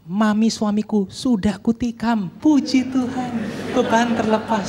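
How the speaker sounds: playful mock status reading; mock testimony. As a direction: draw out each phrase as a joke. Joke reading of the post.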